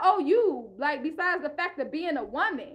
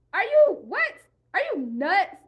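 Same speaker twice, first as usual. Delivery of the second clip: a sharp spike of disbelief in the middle of a rant; incredulous outburst; 2 semitones higher, 3 dB louder than usual. Real, not acted. Ranting at women who blame her, incredulous outburst.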